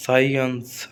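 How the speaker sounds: "साइंस" as sai-uns, starting on a plain S; silent C. Shown as a demonstration. Teacher giving students an example, "साइंस" with silent C. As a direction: say "साइंस" with the C after S unspoken. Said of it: "सी को बोलना नहीं है".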